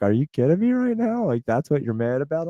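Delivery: high, disbelieving wife's voice; incredulous wife. Retold or imitated. Imitating his wife's disbelief at his complaint. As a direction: mimic her asking if he's serious. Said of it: "my wife's like".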